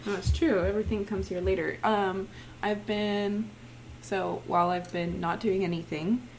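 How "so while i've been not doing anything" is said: raspy, worn-out voice; hoarse like a chain smoker. Real, not acted. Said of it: "'cause I sound like a chain smoker".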